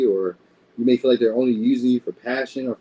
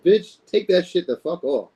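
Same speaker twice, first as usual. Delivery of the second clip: blunt cussing; 6 semitones higher than usual. Shown as a demonstration. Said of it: "And that's how I talk too".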